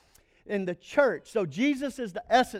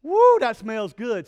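loud, slow, pleased "Woo, that smells good" at a fresh breath; delighted sniff; 2 semitones higher, 9 dB louder than usual. Pretend. Preacher voicing someone smelling Jesus's minty breath, pleased loud woo. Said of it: "Like Jesus has minty breath".

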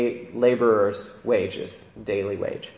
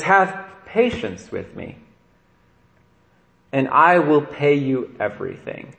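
pleading; slower than usual. Retold or imitated. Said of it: "He pleads".

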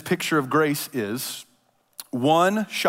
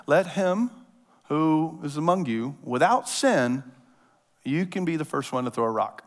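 calm authority. Retold or imitated. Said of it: "he just says".

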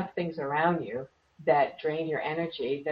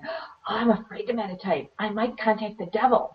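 mock fearful; 5 semitones higher than usual. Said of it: "two Irish women come to me and say".

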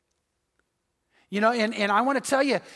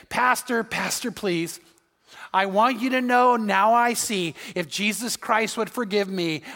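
earnest plea. Retold or imitated. Jackson pleads with the pastor.

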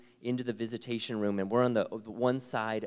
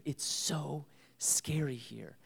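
scared whisper; 5 semitones higher, 5 dB quieter, slower than usual. Retold or imitated. Daughter voiced, frightened.

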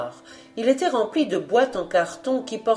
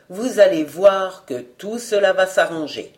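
reassuring; 3 semitones lower than usual. Acted. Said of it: "à la fois énergique et amical".

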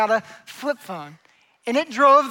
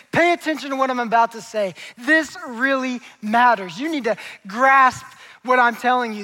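emphatic, punched key words, slightly raised; urgent plea for attention; 2 semitones higher, 4 dB louder than usual. Acted. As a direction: drive it home like someone demanding attention. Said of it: "waving his arms and just saying".

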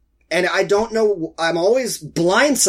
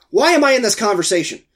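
quick, higher, mildly exasperated aside; exasperated inner voice; 3 semitones higher, faster than usual. Retold or imitated. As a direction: retell a baffled inner protest. Retold exasperated inner monologue.

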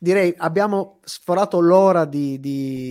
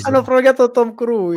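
mock outrage; 6 semitones higher, 5 dB louder than usual.

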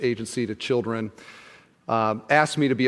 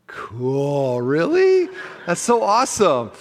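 mock impressed; 2 semitones higher, much slower than usual. Meeting an NBA player, acting impressed.

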